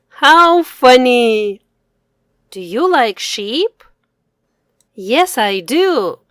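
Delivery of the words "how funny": louder, slow and delighted; delighted exclamation. Acted. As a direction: marvel at the funny sheep. Child repeats with delight.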